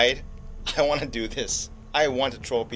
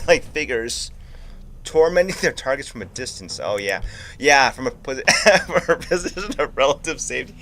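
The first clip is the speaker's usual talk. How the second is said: hiccup giggles. Real, not acted. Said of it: "I can't stop laughing".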